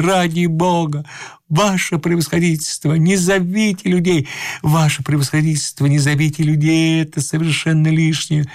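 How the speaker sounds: high, pleading protest; crying out. A narrator's reading. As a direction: plead from a cornered man, pitch held high. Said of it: "кричал Иван Андреевич".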